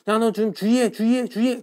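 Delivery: high, loud, rapid-fire mock warning; fast casual speech. Shown as a demonstration. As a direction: rattle it off as an urgent warning, 주의 slurred to 주이. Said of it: "빠르게 발음하면".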